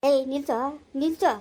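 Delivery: a sister yelling at her brother to stop talking. Acted. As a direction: cut him off at full volume.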